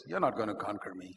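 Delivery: low, soft, sure threat; tempter's taunt. Acted. Sexual lust to the computer user, quiet taunt.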